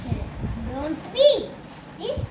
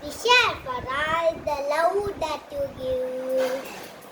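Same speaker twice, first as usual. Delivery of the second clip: rhythmic school recital, stressed key words and stretched endings; rehearsed sing-song verse; poem recitation. Real, not acted. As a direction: recite emphatically, holding out each last word. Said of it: "here to recite a poem about nature".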